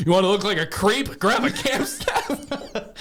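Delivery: slow, laughing creepy pitch; hammed-up creepy commercial. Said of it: "Scott grabs it and goes".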